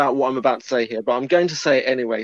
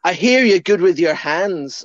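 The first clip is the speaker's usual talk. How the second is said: put-on quoting the old guy; 3 semitones higher, 4 dB louder than usual. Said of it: "the old guy goes something like".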